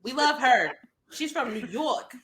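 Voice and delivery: put-on New York accent; playful imitation of New York speech. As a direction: lay on a New York accent, lifted in pitch. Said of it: "that was an amazing New York accent".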